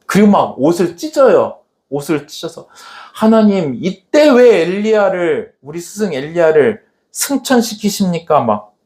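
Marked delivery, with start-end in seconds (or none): 3.1-8.4 angry protest. Retold or imitated. Elisha asking God about his master, acted anger. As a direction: act out indignant complaint to God. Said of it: "화가 나서".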